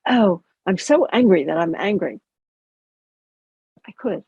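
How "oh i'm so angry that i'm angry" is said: mildly exasperated self-reproach, key words punched; a touch of hammed-up anger; mock angry. Shown as a demonstration. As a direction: act out being cross with yourself. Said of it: "I could have a tone of voice that went".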